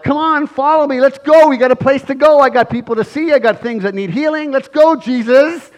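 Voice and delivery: high, loud hurry-up; impatient urging. Acted. Jairus urging Jesus to hurry, high and loud. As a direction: hustle him along. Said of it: "I've been that way".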